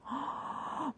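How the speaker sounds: breathy mock gasp of disbelief; imitated aghast gasp. Imitating the woman's appalled stare, aghast gasp. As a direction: suck in air as if appalled.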